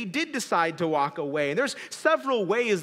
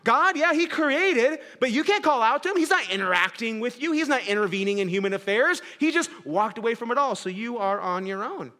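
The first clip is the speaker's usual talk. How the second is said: raised, mocking imitation of a deist; voicing a skeptic with a raised voice; 4 semitones higher, 3 dB louder than usual. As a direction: lay out the deist's shrug loudly. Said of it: "They'd say".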